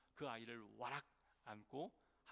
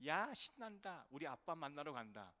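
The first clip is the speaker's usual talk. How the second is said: put-on excited child; 2 semitones higher than usual. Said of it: "뭐라고 떠드냐면".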